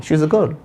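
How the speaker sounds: put-on "a" as a light schwa "uh" in "she is a girl"; "a" slipped in lightly before "girl"; unstressed article. Shown as a demonstration. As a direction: say "a" weakly as "uh", no stress. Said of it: "इसमें मैंने कोई जोर नहीं डाला".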